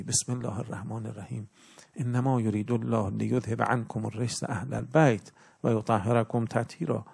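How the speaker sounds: measured chanting of the verse, slowing at the end; Quranic recitation. Shown as a demonstration.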